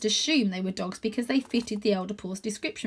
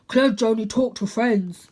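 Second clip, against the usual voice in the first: slow, louder heavy dog voice; big dog; 6 dB louder than usual. A narrator's reading. Dog defending his friend, slow. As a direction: state it plainly.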